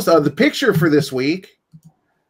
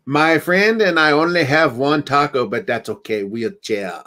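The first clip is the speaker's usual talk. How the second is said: bad Spanish accent. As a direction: deliver the pun in a poor Spanish accent. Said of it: "that is the worst Spanish accent ever".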